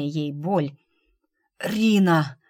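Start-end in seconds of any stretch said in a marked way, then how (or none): 1.6-2.4 a louder, rasping call of her name; wounded man hoarsely calling out to her; hoarse cry. Acted. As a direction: croak her name out in strained warning. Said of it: "прохрипел он".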